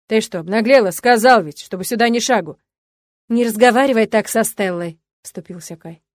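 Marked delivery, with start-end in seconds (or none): 0.1-2.6 angry scolding. A narrator's reading. Father scolding girl. 3.3-5.0 firm angry defence. A narrator's reading. Son defending girlfriend.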